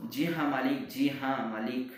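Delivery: loud, stammering repeat; angry stammer. Acted. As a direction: trip over words in rage. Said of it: "गुस्से से तुतलाने लगते हैं".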